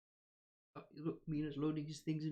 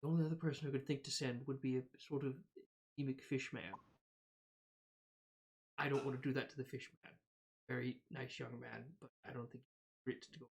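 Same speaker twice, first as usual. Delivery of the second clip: low, very soft private murmur; confiding aside; 3 semitones lower, 6 dB quieter than usual. Acted. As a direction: lean in and confide, keeping it hushed. Trask keeps confiding privately.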